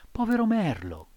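a hint of a sad boy puppet; mild reproach from the puppet; lightly voiced puppet. A narrator's reading. Pinocchio reproaches the cat.

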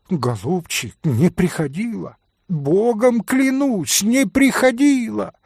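high, frightened swearing; frightened pleading. A narrator's reading. Maid Fenya swears to Mitya, high frightened plea. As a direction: beg him to believe, voice climbing.

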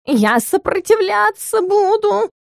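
high, slow howling protest; howling cat. A narrator's reading. Styx protests from under the wardrobe, howling. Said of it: "взвыл Стикс".

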